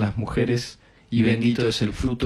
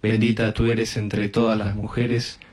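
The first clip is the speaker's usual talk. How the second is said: even, repetitive Hail Mary cadence; rosary prayer. Real, not acted. Leading a decade of the rosary, recited prayer. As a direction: recite it steadily on a nearly level tone.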